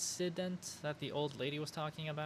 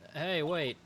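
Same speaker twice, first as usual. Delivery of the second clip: lightly voiced detective standing his ground; gruff detective; 3 semitones higher than usual. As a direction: talk like a big-hearted beat cop guarding the scene. Detective voice continues.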